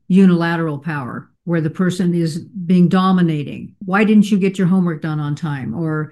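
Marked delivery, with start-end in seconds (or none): 3.8-5.7 "Why" pressed as a mild reproach; stress on why. Shown as a demonstration. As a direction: lean on the word "Why". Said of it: "That emphasis on the word why".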